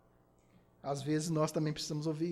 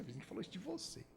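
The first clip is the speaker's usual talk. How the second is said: soft sly gossip, smiling through the words; mock neighbour whispering gossip; gossiping neighbour with a smile; 4 semitones lower, 6 dB quieter, faster than usual. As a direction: lean in and stir trouble, sweetly smiling. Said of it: "E fala assim com aquele sorriso".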